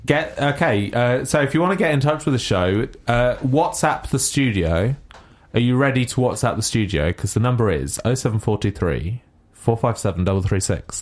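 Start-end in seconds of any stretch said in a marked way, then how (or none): 1.5-7.1 radio voice. Acted. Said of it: "it's my best radio voice". 7.1-11.0 radio voice. Acted. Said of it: "That's how you read everything out".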